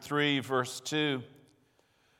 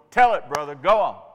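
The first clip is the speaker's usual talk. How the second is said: rising amen call; 6 dB louder than usual. Retold or imitated. Student cheering on professor.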